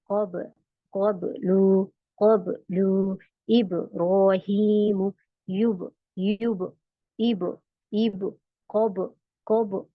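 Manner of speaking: slow syllables with a jolt on each ब; qalqala drill. Shown as a demonstration. Teacher drilling the bouncing ब for the class. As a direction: bounce every ब slowly: कबलू, इब्राहीम, युब. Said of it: "वहां पे आप इसको झटका देंगी".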